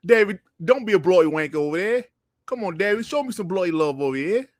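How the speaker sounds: playful bad British accent, rattled off low; terrible British accent. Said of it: "let me do my terrible British accent".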